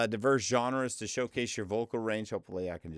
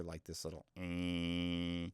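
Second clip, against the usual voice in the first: imitated hum; 3 semitones lower, 7 dB quieter, slower than usual. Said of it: "You can just hear".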